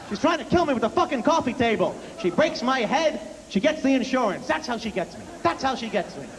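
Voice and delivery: high, conspiratorial dad voice; dad muttering his theory to himself; imitating paranoid dad. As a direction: accuse the wife like it's a plot. Dad blaming mom.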